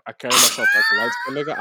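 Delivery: shrieking high in disbelief; outraged disbelief. Real, not acted. Friend mocked on podcast, shrieks in disbelief. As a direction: squeal the question back in outrage. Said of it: "That's crazy".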